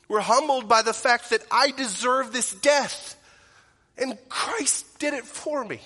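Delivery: rising fervent sermon peak; impassioned preaching. Real, not acted. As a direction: build to a fervent climax. Sermon climax on Christ's death.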